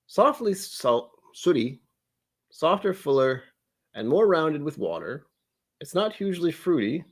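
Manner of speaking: measured English butler reading tasting notes; English butler accent. Acted. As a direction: read it out in a put-on English accent. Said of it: "I slipped into an accent by accident".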